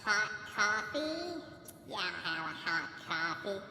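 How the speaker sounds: drawn-out movie quote; slow, strange character voice; slow odd voice. Retold or imitated. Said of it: "Why do you talk like that".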